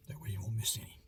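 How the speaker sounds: soft whispered aside. Real, not acted. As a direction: breathe it under your voice.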